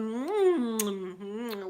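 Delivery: appreciative hum, then fading; demo of enjoying food. Shown as a demonstration. Showing how people sound when food is tasty, contented hum. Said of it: "like that".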